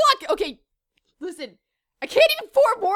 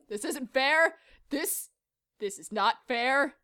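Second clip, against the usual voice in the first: low, soft, restrained protest; subdued complaint; 8 semitones lower, 8 dB quieter than usual. Pretend. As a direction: hold the outburst back, speak quietly. Subdued between outbursts.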